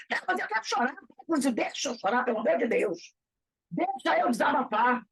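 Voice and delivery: a mock plea that climbs to a shout on the last line; pleading distressed person. A distressed person begging the counselor to let her vent, in a pleading voice that ends in a shout. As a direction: plead like someone desperate to cry it out.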